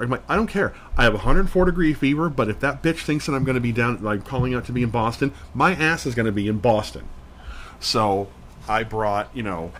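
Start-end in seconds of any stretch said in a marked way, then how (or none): 0.3-7.1 defiant outburst. Retold or imitated. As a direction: spit it out in defiance of the boss. Defiant answer to friend.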